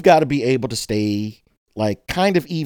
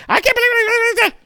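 mock disbelief. People reacting in disbelief.

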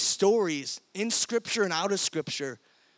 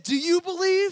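hyping the crowd; 10 semitones higher, 4 dB louder than usual. Retold or imitated. Walker hypes the crowd.

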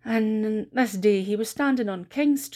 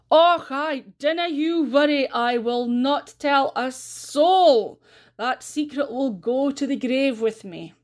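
loud, high mock-solemn vow; exaggerated promise; 5 semitones higher, 3 dB louder, slower than usual. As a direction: overplay the secret for the gossip. Granda teasing for gossip.

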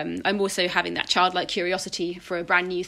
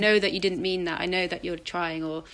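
gentle reassurance. Retold or imitated. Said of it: "I talk to the baby version of myself, I say".

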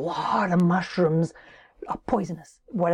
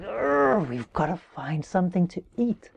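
mock hungry moan; groaning with hunger; lightly groaned complaint; 3 semitones lower than usual. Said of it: "Their stomachs growled".

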